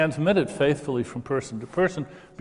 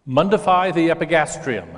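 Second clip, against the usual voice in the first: clear, slightly raised and firm demo phrase; model phrase for repeating; 3 semitones higher, 4 dB louder than usual. Shown as a demonstration. Demo speaker has audience repeat after him, clearly projected model phrase. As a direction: say it out for the room to echo. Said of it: "So repeat after me".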